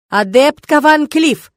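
slow, loud formal command; official tone. Acted. Rector ordering the student to stop, slow loud formal call. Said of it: "совершенно другими интонациями".

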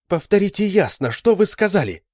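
high, loud insistence; urgent demand. A narrator's reading. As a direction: make him say it again. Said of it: "Adele demands again". (Адель настойчиво, громко)

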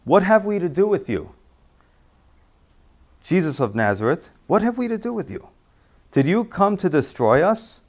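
high, loud cry of the demon. Acted. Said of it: "And he cried out".

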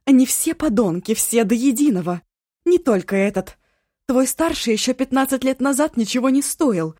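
furious mother screaming abuse, loud and high; angry shout. A narrator's reading. Mother screaming at her daughter on the phone, furious. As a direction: spit every insult at her. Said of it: "Злой крик".

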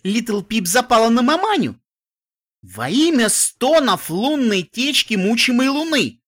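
loud, high, slow teasing; teasing shout. Acted. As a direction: crow it out for everyone to hear. Teen teasing loudly.

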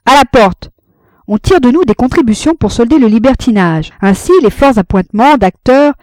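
heckler from afar. A narrator's reading. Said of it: "Une voix proféra de loin".

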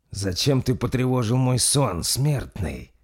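lightly voiced ancient vampire, booming; metallic booming voice. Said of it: "Металлическим гулом раздался голос маэстро".

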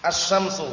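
"Asy-syamsu" with a long doubled sy; silent lam. Shown as a demonstration. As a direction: go straight into a held sh sound in "Asy-syamsu". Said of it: "Diletakkan tasdid setelah lam".

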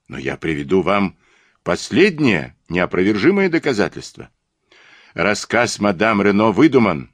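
emphatic, argumentative detective with lifted pitch peaks; triumphant detective. Acted. Detective arguing his case to a mocking rival, triumphant. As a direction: press the case, sure of victory.

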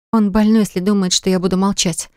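plain reading voice

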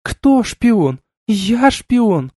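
high outraged protest; indignant outburst. A narrator's reading. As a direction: throw the accusation back. Outraged woman denies accusation. (возмущённый высокий голос)

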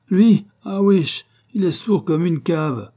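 high, loud dismissive burst; incredulous, brash dismissal; loud scoff. A narrator's reading. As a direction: scoff at the warning. Scoffing at a warning.

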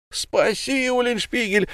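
high pleading wail for rescue; wailing plea. A narrator's reading. Lamme wails to his friend for help, fearful. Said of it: "вопил Лама".

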